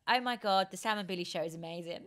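quick American-accented gush. Shown as a demonstration. Host setting a line for the guest, American accent. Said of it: "Um, American".

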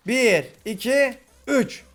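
slow count rising to a shout on üç; slow suspense count. Real, not acted. Counting down to the last mob, slow building count. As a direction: draw out the count, then burst.

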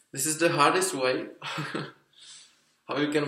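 muffled by fabric over mouth; speaking through balaclava cloth; through a face mask. Real, not acted. Seen 1: Balaclava covers mouth and nose until pulled up around 3.0s.

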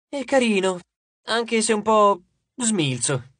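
put-on high, drawn-out girlish voice; appraising nymph. A narrator's reading.

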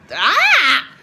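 high, loud frustrated ah with a laugh; frustrated yell. Real, not acted. Venting to viewers, loud frustrated yell with laugh. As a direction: let the frustration burst out.

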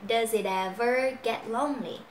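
"it ever" joined, t carried over; linked sounds. Shown as a demonstration. Teacher models the line for learners, "it ever" linked. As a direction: link "Does it ever" in one flow. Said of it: "chỗ này mình nối này".

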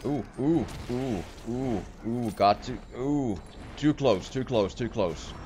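being chased. Real, not acted. Fleeing enemy, panicked cries.

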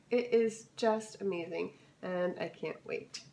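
raspy, scratchy throat. Real, not acted. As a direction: talk through a scratchy voice. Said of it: "I apologize for my scratchy voice".

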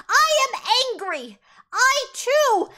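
high, loud hammed-up outrage; mock angry declaration. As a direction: declare it hotly, playing it up. Barbara acted out in anger.

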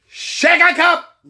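slow, high, stretched product name; drawn out. Acted. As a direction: stretch it like an announcer.

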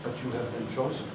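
mock-grave hero call, hushed and quick; ninja voice. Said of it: "with my best ninja voice".

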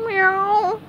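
high, mournful meow; sad Gary. A narrator's reading. Gary answers SpongeBob's bad news, sad meow. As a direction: give a sad little cartoon meow. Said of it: "said Gary sadly".

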